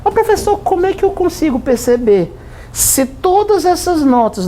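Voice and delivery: high, puzzled pupil asking; student voice. Acted. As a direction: ask the teacher like a confused student. Teacher voices a student question. (voz aguda de aluno intrigado)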